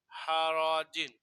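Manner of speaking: হারাজিন stretched slowly with a falling end; slow model reading. Shown as a demonstration. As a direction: draw out হারাজিন for pupils. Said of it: "জিম দুই জের জিন".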